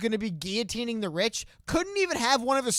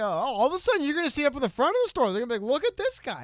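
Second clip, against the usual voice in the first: fast, higher quoted lyric; quoting a rapper; 7 semitones higher, 3 dB louder, faster than usual. Retold or imitated. Quoting a rapper's song line quickly to his co-host. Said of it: "what was that one song by that rapper?".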